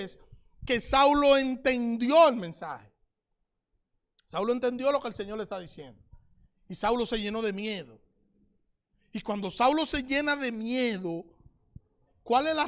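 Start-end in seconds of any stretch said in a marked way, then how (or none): none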